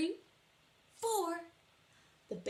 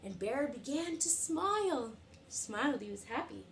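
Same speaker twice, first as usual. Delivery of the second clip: put-on lively read-aloud to little kids; storytime reading. A narrator's reading. Teacher reading a picture book to children, lively. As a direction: read it bright and animated for the class.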